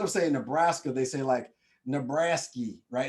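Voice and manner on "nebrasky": mock country twang on the last vowel; country accent. New Yorkers going country on him, mock country accent. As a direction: imitate a country accent, ending "Nebraska" in "-ee". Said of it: "like, a weird accent".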